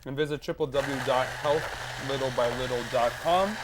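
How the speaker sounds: talking through a mouthful of biscuit; words round a bite of food; mouth full. Real, not acted. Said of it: "I'm talking with my mouth full".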